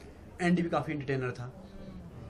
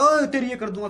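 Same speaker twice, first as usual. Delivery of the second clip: mock threat; 7 semitones higher, 7 dB louder than usual. Retold threat from housemates.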